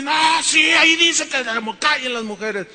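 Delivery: ape a stubborn know-it-all; imitating the arguing guy. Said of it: "se me puso a discutir". (imitando al que discute, más agudo y fuerte)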